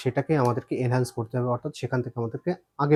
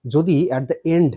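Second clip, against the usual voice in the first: drawn-out emphasis; much slower than usual. Shown as a demonstration. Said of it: "teacher stressing the rule".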